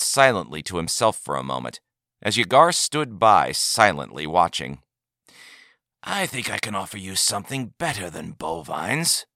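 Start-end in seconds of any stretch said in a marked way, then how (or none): 6.0-9.3 proudly. A narrator's reading. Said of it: "said the old man proudly".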